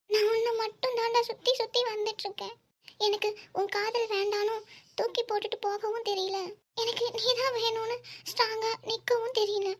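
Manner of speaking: pleading through tears; hurt, tearful outpouring. Acted. Woman pouring out her hurt to the man she loves, tearful. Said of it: "first அழுகுறது stop பண்ணு".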